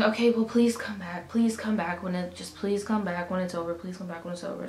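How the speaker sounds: imitated plea on a loop, fading away; repeated pleading. Nurse begging patient to come back, repeated pleading. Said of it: "Kept repeating".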